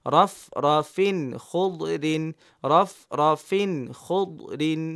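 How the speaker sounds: রফ রফিন and খুদ রিন read with no held nasal; teacher demoing reading without delay; no hold. Shown as a demonstration. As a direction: keep each phrase short and clipped of ghunnah. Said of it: "সময় দিব না".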